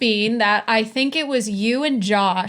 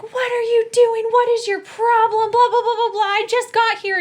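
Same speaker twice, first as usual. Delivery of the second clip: high-pitched mock tirade; shrieky retold scolding, not full volume; imitated angry screaming; 12 semitones higher, 4 dB louder than usual. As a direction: rant high like an outraged roommate. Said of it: "she starts screaming at you".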